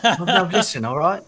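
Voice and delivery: Russell Brand impression. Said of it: "When did Russell Brand become a goblin?".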